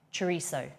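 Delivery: "chorizo" with a soft s for the z; "chorizo" with no t sound before the s; no Italian Z. Shown as a demonstration. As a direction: say "chorizo" as chuh-REE-so. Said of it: "It's not an Italian Z".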